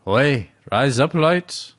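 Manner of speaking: playful Australian "Oi" call; Australian accent. Pretend. Co-host playing with the phrase, mock Australian accent. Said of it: "It's a good Australian accent".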